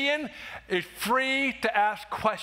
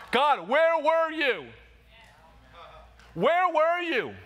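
raised demanding cry; 6 semitones higher, slower than usual. Pretend. Pleading with God, preacher models.

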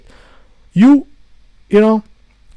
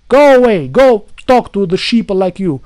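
angry shout; 3 semitones higher, 5 dB louder than usual. Real, not acted. Ranting at commenters.

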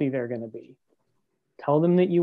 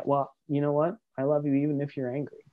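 calm and even, a little softer; 3 dB quieter than usual. Shown as a demonstration. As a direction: stay steady and reassuring, no heat. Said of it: "stick in your calm place and be able to say".

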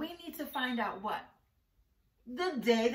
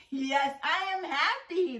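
showing happy; 4 semitones higher, 6 dB louder than usual. Shown as a demonstration. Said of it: "Can you tell how I'm feeling".

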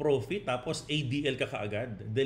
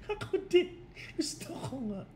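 high, light mock voice; playful high echo. Vlogger agreeing with a viewer, mock high voice. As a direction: toss it up high like a tease.

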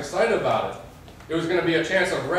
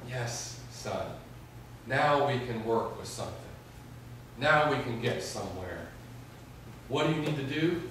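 God's gentle voice; 4 semitones lower, 9 dB quieter than usual. Retold or imitated. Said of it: "God just saying".

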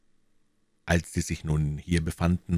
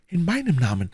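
put-on young woman touched with emotion; heartfelt, tender reply; deeply moved; 12 semitones higher than usual. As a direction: answer with lively feeling. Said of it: "mit lebhafter Rührung".

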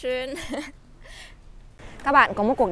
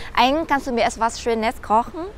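slow, careful teacher read of the German question; slow model sentence; 2 semitones higher, slower than usual. Shown as a demonstration. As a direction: say it slowly for learners to copy. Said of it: "các bạn sẽ nói là". (đọc chậm rãi như mẫu cho học viên)

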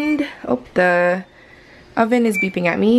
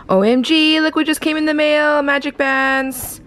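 excited; 5 semitones higher than usual. Real, not acted. Excited unboxing of mail.

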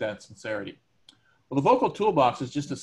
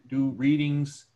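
slow deliberate reading; slower than usual. Shown as a demonstration. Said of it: "I can emphasize words".

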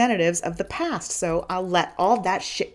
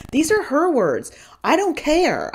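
raised, louder retort; retold shout; 9 semitones higher, 5 dB louder, slower than usual. To her husband, defending their daughter's complaint, raised voice. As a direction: snap back at him, voice up high.

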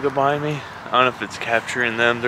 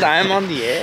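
mock mantra, slightly raised pitch; imitating yoga men; 4 semitones higher than usual. Vlogger quoting the plankers to a friend, mock-earnest. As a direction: lightly parody an earnest affirmation. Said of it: "They said".

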